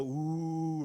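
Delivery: long, drawn-out "ooh"; teasing class "ooh". Retold or imitated. All the kids reacting to the scolding, teasing "ooh". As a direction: imitate classmates jeering with a held "ooh". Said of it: "All the kids go".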